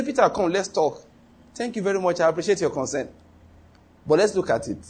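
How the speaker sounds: high, placating politeness, easing down; mock diplomacy. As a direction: play the tactful negotiator, starting high. Acting out a politer reply to Peter.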